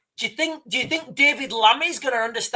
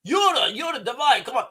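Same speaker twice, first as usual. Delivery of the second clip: higher, urgent mock-Russian call; attempted Russian accent; 4 semitones higher than usual. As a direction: try a Russian accent, calling a crewmate. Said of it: "I can't do a Russian accent".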